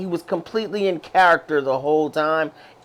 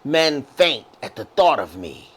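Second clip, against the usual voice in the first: dramatic villain quote; 3 semitones lower than usual. Retold or imitated. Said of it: "his quotes, Jody, are like".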